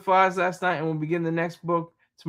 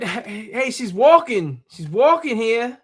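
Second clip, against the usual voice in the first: put-on terrible Italian accent; 4 semitones higher, 5 dB louder, slower than usual. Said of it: "doing a terrible Italian accent".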